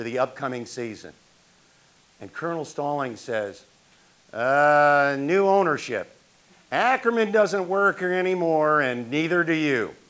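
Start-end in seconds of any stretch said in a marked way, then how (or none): 4.3-10.0 curt dismissal. Retold or imitated. Colonel telling the new ball boy he's fired, curt. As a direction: brush the kid off in one breath. Official firing him on phone.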